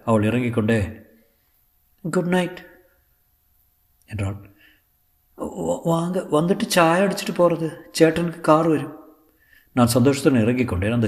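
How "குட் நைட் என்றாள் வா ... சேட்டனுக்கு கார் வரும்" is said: high, lightly voiced actress; Sulekha. Actress inviting her tutor in for tea, high character voice.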